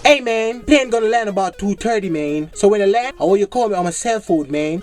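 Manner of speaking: Jamaican putting on an American twang; lightly mock the airport accent; fake foreign twang. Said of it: "different accent".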